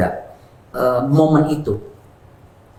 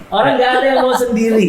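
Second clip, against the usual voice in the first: emphatic; 12 semitones higher, 4 dB louder than usual. Real, not acted. Emphatic claim.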